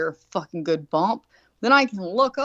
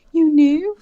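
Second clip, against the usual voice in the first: shocked daughter; 7 semitones higher, 7 dB louder than usual. Retold or imitated. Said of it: "she goes".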